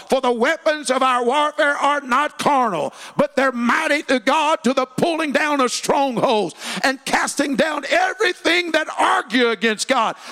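scripture shouted high and loud; verse proclaimed at full force; preached scripture. Shown as a demonstration. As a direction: thunder the verse from the pulpit. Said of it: "Second Corinthians ten and four".

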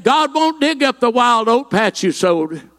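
ordinary delivery

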